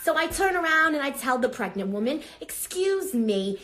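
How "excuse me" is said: pointed excuse me. Retold or imitated. Acted confrontation in store line.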